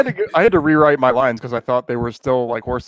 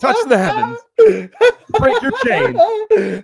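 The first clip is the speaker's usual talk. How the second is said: fiery revolutionary speech; slower than usual. Pretend. Gurren Lagann battle cry parody.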